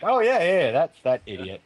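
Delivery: high-pitched "oh yeah" of recall; mock recognition. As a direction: imitate someone suddenly placing that fool. Imagines the star's reply, acted.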